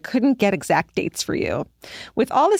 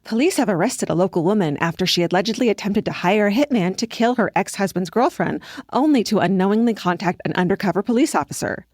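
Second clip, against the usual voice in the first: serious TV news anchor read; newscaster voice. Shown as a demonstration. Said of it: "Georgia puts on her newscaster voice".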